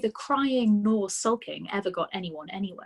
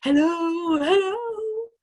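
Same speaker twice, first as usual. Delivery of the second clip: higher, louder parrot call of hello; 9 semitones higher, 8 dB louder, much slower than usual. A narrator's reading. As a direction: squawk hello down the chimney. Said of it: "the bird called down to her".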